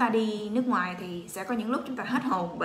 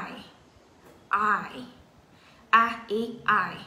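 slow letter drill; slower than usual. Shown as a demonstration. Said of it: "chúng ta đọc là".

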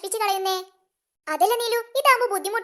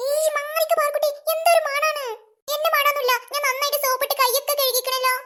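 put-on higher kid voices at play; child voices; 4 semitones higher than usual. Children refusing to let Parukutty play, higher kid voices. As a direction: kids squabbling over a game.

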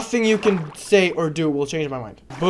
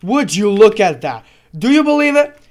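sarcastic boasting; 3 semitones higher, 5 dB louder than usual. Pretend. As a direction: brag with fake pride. Sarcastic boast after cut.

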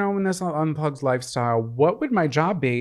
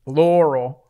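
mock Laurel voice; 3 semitones higher, 7 dB louder than usual. Yanny Laurel bit with co-host.

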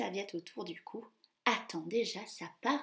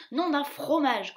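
higher, louder annoyed mouse oath; grumbling mouse; 5 semitones higher, 7 dB louder than usual. Acted. Jacques the mouse grumbling, annoyed oath. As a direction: curse like a cross mouse. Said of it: "grommelle-t-il".

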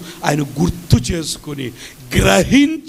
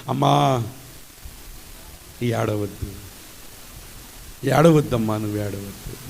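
much lower and softer, hushed; tender comforting; 9 semitones lower, 7 dB quieter than usual. Acted. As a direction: whisper comfort to a grieving mother. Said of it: "ఆ రోదన గుర్తించిన దేవుడు అంటున్నాడు". (దుఃఖిస్తున్న తల్లిని మెల్లగా ఓదారుస్తూ)

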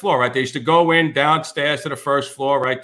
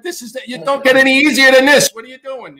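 mock incredulous boss; 9 semitones higher, 5 dB louder than usual. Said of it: "You're like".

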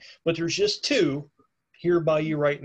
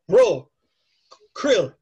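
yell; 6 dB louder than usual. Acted. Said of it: "he yells across there".

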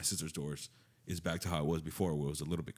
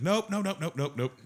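high, louder string of nopes; rapid refusal; 11 semitones higher, 5 dB louder than usual. Retold or imitated. Friend refusing to hear something creepy, high rapid refusal. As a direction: imitate a friend shutting it right down.

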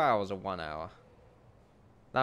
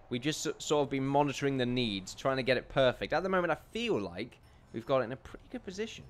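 normal talking voice

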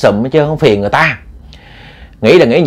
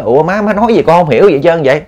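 higher-pitched, puzzled daughter; bewildered protest; 5 semitones higher than usual. Acted. Daughter not knowing why mother scolds her, bewildered protest. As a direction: question it innocently, pitch raised. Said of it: "Cô Như cô không biết lý do tại sao mình bị la nữa".

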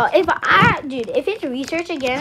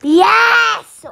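excited yes; 7 semitones higher, 9 dB louder than usual. Real, not acted. Celebrating in game.

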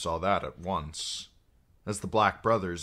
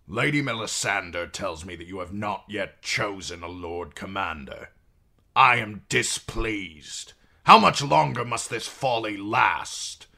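stern displeased king; 3 semitones higher, 6 dB louder than usual. Acted. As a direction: scold them coldly. King scolds the brothers.

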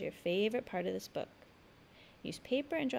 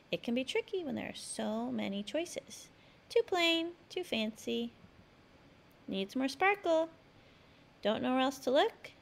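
put-on lively read-aloud for young children; storybook reading. A narrator's reading. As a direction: tell the story brightly to a child. Reads picture book aloud.

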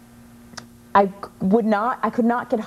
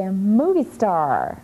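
put-on child's answer; 2 semitones higher than usual. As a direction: play a small girl announcing her dream. Little girl answers.

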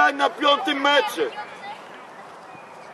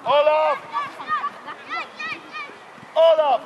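calling out; 11 semitones higher than usual. Real, not acted. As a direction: call him from across the field. Coach calling player across pitch. (głośne wołanie zawodnika)

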